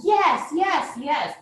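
imitating nurses' high encouragement; cheering on. Nurses urging the mother to push, imitated cheering. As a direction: cheer it, starting high, easing down. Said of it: "like, really cheering me on".

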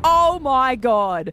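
long drawn-out, awed reaction; retold amazement. Girlfriend finds the rose-petal villa, retold amazement. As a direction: stretch it slowly in stunned delight. Retells reaction to romantic surprise.

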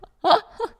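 high-pitched burst of laughter; high squealing laugh. Real, not acted. Laughing at her old diary.

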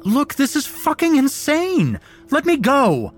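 high, loud panicked shout; terrified frantic demand; desperate yell. A narrator's reading. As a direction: scream to be let go. Captive yelling at captors.

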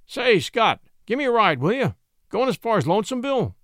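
high, loud country lawman calling out; folksy rural deputy. A narrator's reading. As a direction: hail the driver in a rustic voice.

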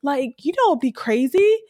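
lightly hammed-up fake outrage; mock-indignant fake victim, lightly done; Jim Carrey liar mode. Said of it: "full liar, Jim Carrey mode".

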